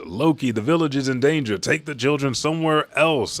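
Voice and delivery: high, urgent call; imitated yell. Giant warning Loki of village in danger, mock yelling. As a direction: raise the pitch as if warning someone across a battle. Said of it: "A giant turns around and yells".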